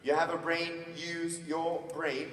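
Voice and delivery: "use your brain" slowly, word by word; slow emphatic repeat. Retold or imitated. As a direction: drum in "use your brain" with spaced-out words. Father repeats advice for emphasis.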